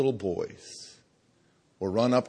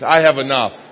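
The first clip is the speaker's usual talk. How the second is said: louder, firm declaration; said like you mean it; 9 dB louder than usual. Shown as a demonstration. Pastor asks congregation to mean "I have enough," louder. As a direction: push "I have enough" out with conviction. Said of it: "say it like you mean it".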